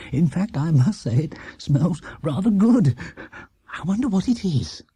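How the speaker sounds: a hint of a curious father, sniffing the air; musing over the smell, light and interested; lightly voiced Mr Brown. Mr Brown wondering about the smell, lightly voiced and curious.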